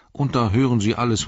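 a gatekeeper talking up the local news. A narrator's reading.

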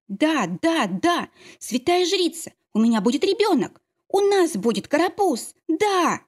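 understated happy yell at her friend; joyful yell. Acted. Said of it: "заорала она".

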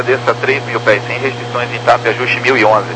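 usual speaking voice

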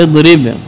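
اضرب opening on an "i" sound; اضرب with its first vowel a kasra; kasra on hamza. Shown as a demonstration. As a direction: say اضرب as "idrib". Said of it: "كسرها في".

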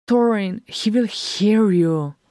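voiced hiss to hush a companion; hissed warning. A narrator's reading. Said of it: "Freyr hissed".

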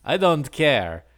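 put-on slow mushy biker voice with a foreign accent; marbles in mouth. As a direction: chew the words like marbles, slowly. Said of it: "sounds like he has marbles in his mouth, and English is his second language".

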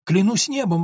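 gasped name, then a cry to heaven; shocked recognition breaking into an outcry; exclaiming. A narrator's reading. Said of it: "воскликнул Лоренцо".

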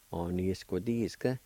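On, ni, squa, di, ska as one connected word; whole-word model of On, ni, squa, di, ska; joined-up pronunciation. Shown as a demonstration. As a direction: say On, ni, squa, di, ska straight through. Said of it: "I'll pronounce these words one more time".

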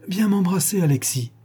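mild put-on tenderness; a touch of false fatherly warmth; feigned tenderness. Guilty banker feigning tenderness to his son, understated. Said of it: "simulant un profond attendrissement".

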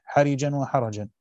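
slow, careful حرجا with ra sounded two ways; two readings of the ra. Shown as a demonstration. Teacher contrasting the two Quran readings, slow and clear. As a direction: say حرجا slowly, first with kasra on the ra, then with fatha. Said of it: "بكسر الراء ... والباقون بفتحها".

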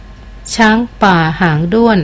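a slow, bemused echo; slow repeating. Acted. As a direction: repeat it back slowly, puzzled. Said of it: "เขาทวนคำช้าๆ".

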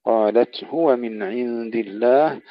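slow recitation with a distinct هاء in هو; clear ha. Shown as a demonstration. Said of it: "إظهار الهاء". (إظهار الهاء في التلاوة)

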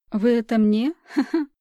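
giggling dopily, high laugh; a daft drugged laugh; silly giggle. Acted. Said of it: "Глуповато рассмеялась подозреваемая".

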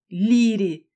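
delighted cry. Acted. Kayden delighted.

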